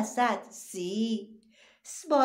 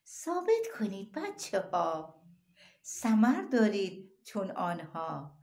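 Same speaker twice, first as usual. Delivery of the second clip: poem recital. Acted.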